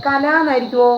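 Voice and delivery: കല read with both syllables full, ka-la; teacher tries the wrong reading കല as ka-la, both vowels said. Shown as a demonstration. Teacher testing students, reads കല as full ka-la. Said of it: "കല എന്ന് വായിക്കില്ല".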